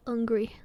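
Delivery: "Hungry" said low as "ungry", no H; dropped H. Retold or imitated. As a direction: leave the H off "Hungry", French style. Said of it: "don't pronounce H at the start".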